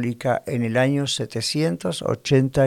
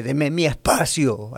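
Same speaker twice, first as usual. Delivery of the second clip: slow, drawn-out dramatic plea; milk each word like a wounded plea; a hammed-up, slow demand for space; said dramatically; slower than usual. Shown as a demonstration. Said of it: "Yo lo digo dramáticamente".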